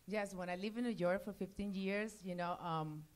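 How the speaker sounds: heavy put-on Spanish accent; thick accent. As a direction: lay the thick accent on heavily. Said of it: "nobody has any idea what you're saying".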